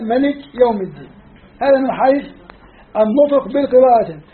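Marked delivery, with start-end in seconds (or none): 0.0-1.1 ملك said short, malik with a clipped first vowel; short reading without alif. Shown as a demonstration. Teacher reciting the other reading ملك, short vowel. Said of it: "قرأوا بقراءة".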